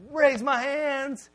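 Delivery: very slow, drawn out; hesitant try. Retold or imitated. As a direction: ease into it nervously. Timid trying to worship.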